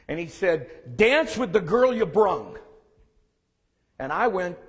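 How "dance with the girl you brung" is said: lightly voiced gruff grandpa, slow and louder; slow, gruff old-man saying, only lightly put on. Grandfather gives his grandson game advice in a mild gruff voice. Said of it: "gruff voice that he had".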